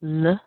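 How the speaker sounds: "l" as a short, weak "luh"; brief unstressed "l" with a neutral vowel; isolated weak last syllable "l". Shown as a demonstration. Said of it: "are not so strong".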